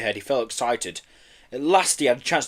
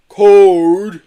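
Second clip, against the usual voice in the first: chuckled; 7 semitones higher, 14 dB louder than usual. A narrator's reading. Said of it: "chuckled Marbo".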